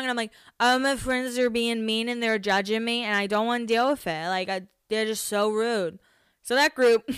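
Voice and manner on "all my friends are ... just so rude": mock drunken whimper, slightly slurred; tearful drunk complaint. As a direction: imitate your drunk self complaining through tears. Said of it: "So I walk over crying".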